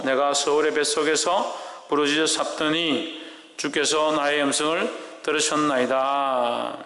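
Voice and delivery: slow, solemn reading of the verse; scripture reading. Acted. Pastor reading Jonah's prayer to the church, slow and solemn. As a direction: read the Bible passage slowly to the congregation.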